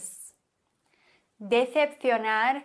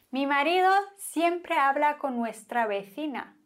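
fast jealous repeat; 3 semitones higher, faster than usual. Shown as a demonstration.

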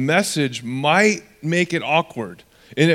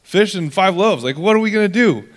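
sarcastic complaint that builds higher and faster; mock sarcastic; 4 semitones higher than usual. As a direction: play the exasperated disciple, whining up toward the end. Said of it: "the disciples respond sarcastically".

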